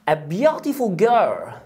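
very slow, each word spaced; slow model phrase. Shown as a demonstration. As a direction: stretch it out for the pupil. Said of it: "teacher models phrase slowly". (ببطء شديد)

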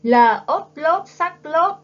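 slow, clear model spelling of "L ốt lốt sắc lốt". Shown as a demonstration. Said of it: "Cùng cô đánh vần nào".

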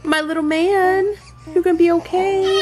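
soothing. Real, not acted. Mother inviting her crying son to sit with her, soothing.

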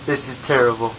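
put-on light British accent, fussing. Ghost fumbling his wrist, grumbling in a British accent. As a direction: complain about the wrist with a British lilt. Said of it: "talking in a British accent this whole time".

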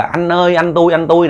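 calling out. Retold or imitated. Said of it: "cứ kêu là".

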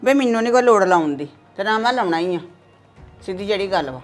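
loud stubborn yell back; defiant mother shouting back; angry shout. Acted. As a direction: refuse him at full voice.

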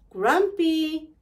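high, drawn-out questioning call; tentative high "Grumpy?". A narrator's reading. Mouse calls to snoring Grumpy.

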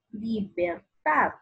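"Libertad" slow, with TAD drawn out; stress on TAD. Shown as a demonstration. Teacher showing the strongest syllable, slow stressed TAD in "Libertad". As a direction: lean on the last syllable of "Libertad". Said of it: "En la sílaba ta".

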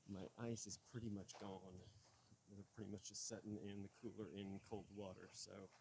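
winded from climbing the hill; breathy, winded talk while walking uphill; out of breath. Real, not acted. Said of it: "I'm out of breath".

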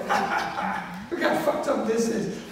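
gloat, laughing at the mess; mocking laugh. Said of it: "The Americans, in a way, are like".

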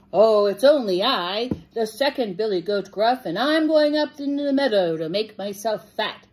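lightly voiced middle goat; not-so-small voice. A narrator's reading. Second goat answers the troll, not-so-small voice. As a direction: speak up as the mid-sized goat. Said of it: "his voice was not so small".

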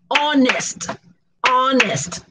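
"honest" in two even beats, ON-NEST; syllable by syllable. Shown as a demonstration. Teacher has learners count syllables by sound, syllable by syllable. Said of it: "we divide the syllable by sound".

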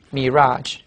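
"mirage" with the stress on RAGE; stress on second syllable. Shown as a demonstration. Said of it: "注意在第二音节".

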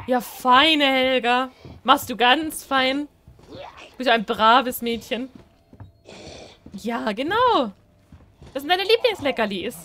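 slow, loud sing-song praise for a dog; coaxing pet talk. Pretend. Player luring the dog Helga up the stairs, slow coaxing pet talk. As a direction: drag it out like praising a good dog.

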